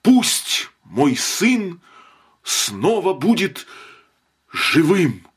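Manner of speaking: high loud slow shriek; frenzied scream. A narrator's reading. Mother screams for her son to live again. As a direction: shriek the wish out.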